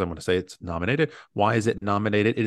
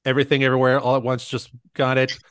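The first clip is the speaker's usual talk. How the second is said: excited; 5 semitones higher, 8 dB louder, faster than usual. Real, not acted. Reacting live to real win.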